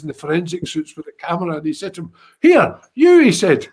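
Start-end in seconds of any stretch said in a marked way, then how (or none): 2.4-3.2 loud, high call; a cop calling a forensics officer over; mock calling out. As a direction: call across the room to him.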